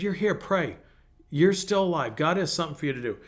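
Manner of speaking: mildly stern exhortation; firm, urging her on. Retold or imitated. Pastor retelling his encouragement to a lamenting lady, mildly stern. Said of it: "I kinda got stern with her".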